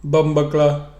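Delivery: tentative stab at a Jamaican accent; sounding out Jamaican patois carefully; attempted Jamaican accent. Shown as a demonstration. Learner tries the Jamaican word, mild Jamaican accent. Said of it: "you gotta use the accent".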